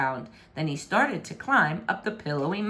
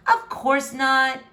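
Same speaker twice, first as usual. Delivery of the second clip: slow, sweet of course not; drawn-out denial; 6 semitones higher, 4 dB louder, slower than usual. A narrator's reading. Princess covering her lie, slow and sweet. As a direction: stretch it out innocently.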